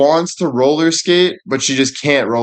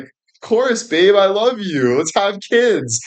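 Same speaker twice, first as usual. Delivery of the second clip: mock sweet girlfriend; 7 semitones higher, slower than usual. Jenny voiced in roast story.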